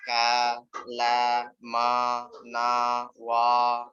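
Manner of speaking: a wrong recitation with unstable A vowels; uneven vowels. Shown as a demonstration. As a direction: recite "Ka, la, ma, na, wa" letting the fathah vowel change on every syllable. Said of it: "Ulang lagi nih ya".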